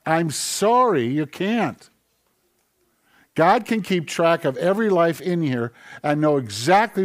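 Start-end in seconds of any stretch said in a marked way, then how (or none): none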